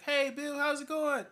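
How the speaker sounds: high, loud friendly call from the street. Retold or imitated. Regular people calling out to Bill Clinton in his car, high and loud. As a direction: shout up to a passing car.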